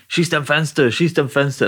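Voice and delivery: a hint of a German villain barking; imitating Hans shouting. Podcast host quoting Hans Gruber in the film, mock German shout. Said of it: "when he's shouting".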